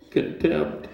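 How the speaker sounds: voiceless, half-whispered dreaded word; mock-timid. Audience afraid of that word in court, mock whisper. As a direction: imitate someone scared to say it aloud. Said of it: "Everybody's saying it quietly in here".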